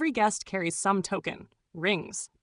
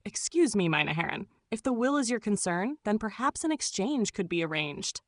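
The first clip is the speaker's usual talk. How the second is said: put-on German accent; 3 semitones higher than usual. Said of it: "then spoke in his assumed accent".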